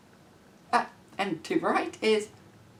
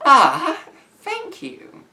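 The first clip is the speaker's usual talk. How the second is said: laughing thanks; 10 semitones higher, 7 dB louder, much slower than usual. Real, not acted. Touched reply to teacher's message.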